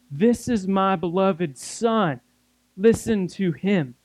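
slow, deliberate God voice, lightly acted; God's proclamation. God finally getting a word in over Peter, slow proclamation. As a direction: make the announcement slowly, each phrase set apart. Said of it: "it's like God had to clear his throat".

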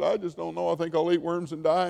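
mock self-pitying whine; whining. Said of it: "He's just whining".

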